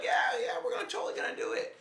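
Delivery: high, fast sing-song promise; mock eager friends. Friends promising to pay, high mock voice. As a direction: squeak it out like a flaky friend.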